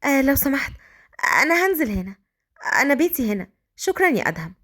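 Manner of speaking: put-on shy young woman politely excusing herself; bashful, polite request; shy, embarrassed. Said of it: "قالت بكسوف لأدهم".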